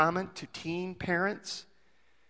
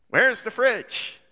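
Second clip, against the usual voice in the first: higher, slow "Where's the fridge?" in disbelief; incredulous echo; 6 semitones higher, 4 dB louder, slower than usual. Retold or imitated. A parent repeats the baby's question in disbelief. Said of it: "You go, "What?".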